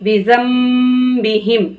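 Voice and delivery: slow, gentle बी जम बी हिम with a soft जाल; soft recitation. Shown as a demonstration. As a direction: recite बी जम बी हिम softly and slowly. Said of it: "इसको नरमी के साथ पढ़ना है".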